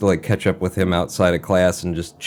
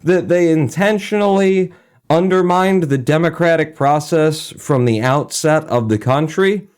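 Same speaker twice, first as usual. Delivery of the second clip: higher, slow, overly earnest question; mock earnest student; 8 semitones higher than usual. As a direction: play the keen student asking innocently. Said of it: "shot my hand up and was like".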